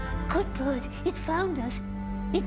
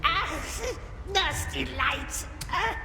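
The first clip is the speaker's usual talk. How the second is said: pained cry; 6 semitones higher than usual. Acted. Pained by the light.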